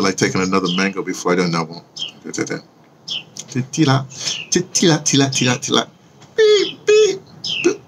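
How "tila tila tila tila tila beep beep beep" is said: chirpy tila trills rising to high beeps; badly faked birdsong, high-pitched peeps; mock bird calls. Playing a bird before greeting Instagram, mock chirping. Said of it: "I can't sound like a bird".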